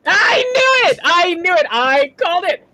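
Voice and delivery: high, loud gloating; yelling in triumph after her guess was right; triumphant shout. Real, not acted. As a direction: crow it out, vindicated. Triumph, friend confirms prank.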